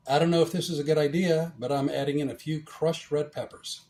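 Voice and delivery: ordinary talk, nothing marked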